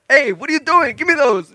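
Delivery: retold angry demand. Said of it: "he comes and he's like".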